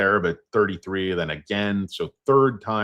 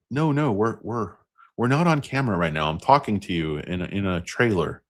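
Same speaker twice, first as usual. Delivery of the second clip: Annette Bening impression; 3 semitones higher than usual. Imitating the actress telling Costner they're off camera. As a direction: break character, exasperated. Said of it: "It's like".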